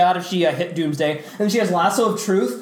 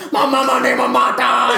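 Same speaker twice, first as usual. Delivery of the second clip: higher dopey cry; mock hero wail; 4 semitones higher, 4 dB louder than usual. Friend mocking the Martha scene, dopey wail. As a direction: wail it like a dim-witted hero.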